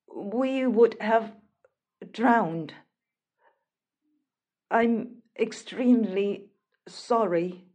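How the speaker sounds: halting, mildly guilt-ridden apology; guilty. Acted. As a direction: apologise haltingly, with long pauses. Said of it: "guilt written all over his face".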